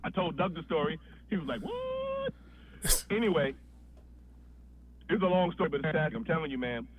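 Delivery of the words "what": very high-pitched, disbelieving what; mock astonishment. Doug hearing the story, astonished. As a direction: imitate a friend's squeal of disbelief.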